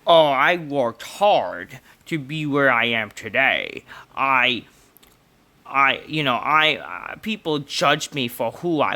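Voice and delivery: slow, flat mock of a dull promo; mock wrestler promo; mocking imitation. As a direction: parody her lifeless speech, drawn out. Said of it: "It's like".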